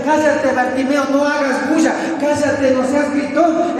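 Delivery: lightly voiced scolding crowd; high-pitched preacher imitating people telling someone off; crowd hushing him. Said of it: "la multitud estaba alrededor de Jesucristo y mientras le decían".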